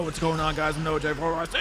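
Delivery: mock YouTuber greeting; lightly parodied video intro ending in a shout; NoahJ456. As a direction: send up a YouTuber's sign-on. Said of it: "YouTubers try to capitalize on that stuff".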